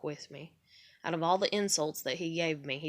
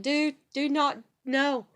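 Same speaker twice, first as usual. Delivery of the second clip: high, loud panicked "dude, do not"; half-laughing alarmed protest; 7 semitones higher, 5 dB louder, slower than usual. Retold or imitated. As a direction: squeal out a frantic no. Telling trucker friend to stop.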